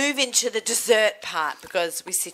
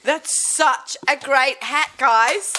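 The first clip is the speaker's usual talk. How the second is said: excited; 5 semitones higher, 3 dB louder, much slower than usual. Real, not acted. Raving to viewers.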